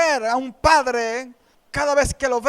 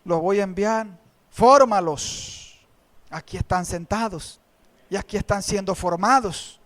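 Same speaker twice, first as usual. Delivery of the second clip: voice of the Lord; 4 semitones lower than usual. Retold or imitated. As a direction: answer as a patient Lord, low. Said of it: "el Señor me dijo".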